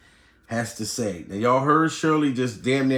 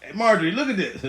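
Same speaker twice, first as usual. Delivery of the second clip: higher, laughing boast to his wife; higher, chuckling show-off teasing his wife; imagined rich husband, laughing; 4 semitones higher than usual. Retold or imitated. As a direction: gloat to the wife while laughing at the internet. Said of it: "I'd be sitting back laughing like".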